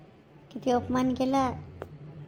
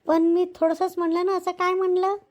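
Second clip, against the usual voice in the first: hurt protest; 4 semitones higher, 3 dB louder than usual. Acted. Maid protesting to her husband, raised and hurt. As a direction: pitch climbing, voice raised in protest.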